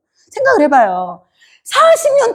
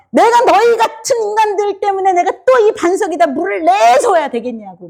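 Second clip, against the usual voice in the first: Moses losing temper; 6 semitones higher than usual. Retold or imitated. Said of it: "막 성질을 내면서".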